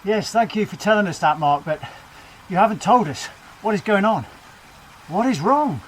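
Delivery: urgent breaking news read; lightly voiced TV newsreader; news anchor. Self as news presenter.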